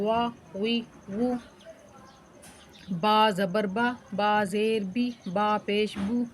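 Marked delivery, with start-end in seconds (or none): 0.0-1.3 "وا وی وو" with lips rounded, never touching. Shown as a demonstration. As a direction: round the mouth into each W of "وا وی وو". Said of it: "منہ کو گلائی میں رکھنا ہے". ("وا وی وو" منہ گول کر کے)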